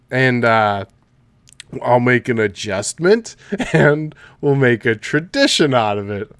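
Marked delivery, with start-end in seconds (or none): 1.8-6.3 laughing. Retold or imitated.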